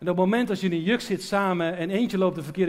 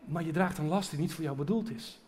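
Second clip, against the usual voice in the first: tender voice of God; 2 semitones lower, 6 dB quieter than usual. Retold or imitated.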